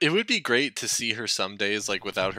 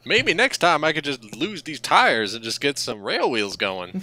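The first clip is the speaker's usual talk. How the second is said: higher, louder, excited little lorry; giddy boast; 6 semitones higher, 4 dB louder than usual. Acted. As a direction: get carried away with pride. Acting Madge's giddy boast.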